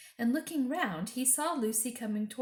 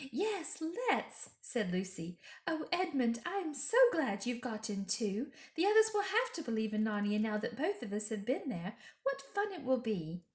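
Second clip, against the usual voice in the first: put-on higher, earnest girl telling a story; higher, earnest little girl; young girl's voice; 4 semitones higher than usual. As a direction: tell it wide-eyed and eager. Lucy speaks.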